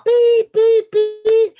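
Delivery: loud high beep beep beep; card swipe beeps. Retold or imitated. Swiping a card in Vegas, loud high beeps. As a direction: mimic the card reader beeping loudly.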